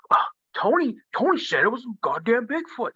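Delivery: high, sing-song mocking kid; teasing little brother. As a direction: tattle on him like a bratty sibling.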